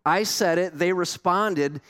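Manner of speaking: lightly voiced bragging prophet; boastful Jonah. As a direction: gloat like the proud winner. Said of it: "Why wasn't Jonah like".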